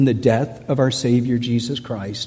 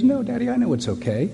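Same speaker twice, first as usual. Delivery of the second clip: lightly voiced little girl, higher and quick; a hint of a child pleading with Daddy, pitched higher; imitating young daughter; 9 semitones higher, faster than usual. Little daughter on dad's lap before the funeral, lightly voiced child. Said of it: "She goes".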